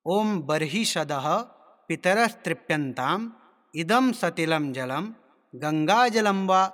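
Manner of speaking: measured Sanskrit chanting with drawn-out syllables; mantra recitation. Shown as a demonstration. Teacher demonstrating tarpan mantras to learners, measured recitation. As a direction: intone each phrase slowly, pausing between.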